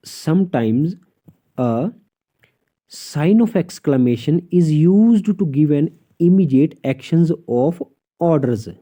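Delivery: dictating a textbook rule; slow rule reading. Shown as a demonstration. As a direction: read the rule out slowly, word by word. Reads English rule aloud slowly. (धीरे-धीरे नियम पढ़कर सुनाना)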